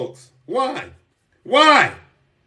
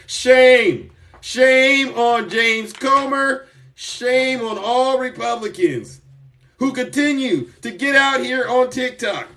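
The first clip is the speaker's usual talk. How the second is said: slow indignant denunciation; 4 semitones higher than usual. Real, not acted. Denouncing Comer and Republicans.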